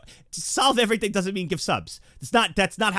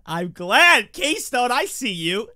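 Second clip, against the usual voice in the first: loud, higher shout of relief; excited; 6 semitones higher, 7 dB louder, much slower than usual. Real, not acted. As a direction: burst out happily. Louder repeat.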